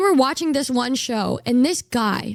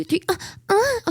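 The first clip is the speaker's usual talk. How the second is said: higher, breathy-free playful moaning on the count; mock moan; 7 semitones higher than usual. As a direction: moan teasingly after three. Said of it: "And then she's like".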